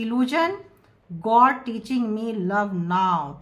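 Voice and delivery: very slow, spaced English words; slow channeled message. Acted. Tarot reader voices the partner's inner message slowly. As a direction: let each word of the message land slowly.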